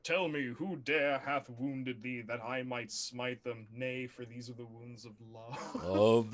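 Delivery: put-on slow, solemn old-English giant; archaic giant voice. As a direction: intone it slowly like a giant. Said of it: "And the giant says".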